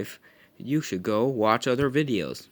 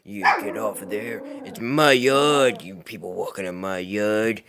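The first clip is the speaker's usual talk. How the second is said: a dog's voice, gruff and indignant, louder; voicing angry dog; 6 dB louder than usual. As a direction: bark it like a grumpy guard dog. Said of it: "He's like".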